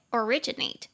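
originate with the stress on RI; o-RI-gi-nate, teacher demonstrating the stress in originate; stress on second syllable. Shown as a demonstration. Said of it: "重音节在第二音节".

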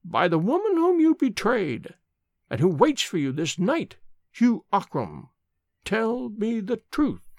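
high, intoned demand; solemn summons to a dying man; old nurse's adjuration. A narrator's reading. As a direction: intone it high, stretching the final plea slowly. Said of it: "Nurse MacDonald spoke a third time".

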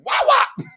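high, punchy "wah, wah" smack; imitated whack noise. Comic telling of a horse tail hit, imitated whack. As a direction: mimic a smack with your voice.

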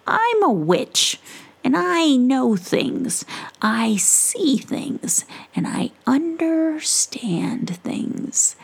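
slow, hushed wise witch; mysterious witch. Acted. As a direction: let the words sink in.

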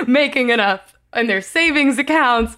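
words bubbling with real laughter; laughing through words. Real, not acted. Cohost tells the Animal Crossing bank story, laughing. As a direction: laugh while finishing the sentence.

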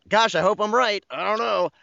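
high-pitched stereotypical British accent; bad British accent. Shown as a demonstration. Actor demonstrating his self-confessed horrible accent, mock British. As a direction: put on a hammy, unsure British accent. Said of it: "my British accent is just sort of like".

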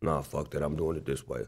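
low, quiet stubborn refusal; hard-headed singer. Retold or imitated. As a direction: imitate a bandmate digging in, voice dropped. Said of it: "He hard-headed in the studio".

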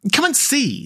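high, delighted call. A narrator's reading. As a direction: sing out with glee, pitched high. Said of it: "said the delighted rat".

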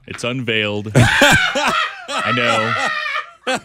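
stuffed-up nose, laughing through it; blocked nose. Real, not acted. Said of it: "I also can't breathe through my nose right now".

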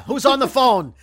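put-on gravelly old tycoon. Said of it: "C E O trailer guy".

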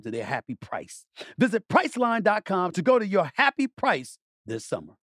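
upbeat sponsor read, punching key offers. Real, not acted. Host pitching a travel deal to listeners, ad read. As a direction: sell it like a radio host.

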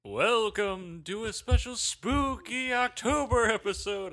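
spooky voice. Pretend. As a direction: drag it out like a haunted host. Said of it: "you didn't do spooky voice".

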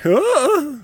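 diva exclamation. Retold or imitated. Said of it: "my oldest daughter did her".

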